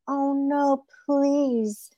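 high, soft begging; pleading rabbit. Acted. Caught rabbit begs coyote.

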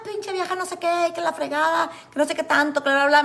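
high, mocking screech of an insult; hammed-up drunk woman scolding; retelling how the drunk passenger screamed at her; imitating a drunk woman yelling. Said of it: "me empieza a gritar".

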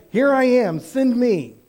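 high, loud, ready to go; keen answer to the Lord's call; eager volunteering. Pretend. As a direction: throw your hand up and say it.

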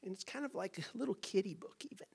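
dismissive belittling. Pretend. Preacher mocking a dismissive view of Revelation, soft and belittling. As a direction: belittle the book as a trifle. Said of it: "It's not like".

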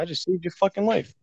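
high-pitched mock indignation; acted indignant scolding. Friend to the high teller after saving him, indignant.

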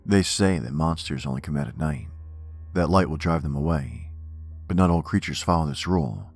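measured, ominous poem recital; poem reading. Acted. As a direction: recite it darkly, line by line. Reads horror poem aloud.

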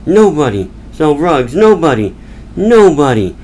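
mildly exasperated mock rant; frustrated. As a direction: grumble as a fed-up salesman, lightly acted. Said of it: "frustrated with his day, and he's like".

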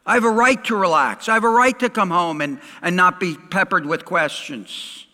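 high, loud, quick protest; acted indignant outburst; indignant husband. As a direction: play a put-upon husband insisting on his rights. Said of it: "His rights have been violated".

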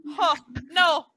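high, loud panicked yelling; screaming and yelling. Real, not acted. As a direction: shout it frantically while being chased. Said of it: "I found a house".

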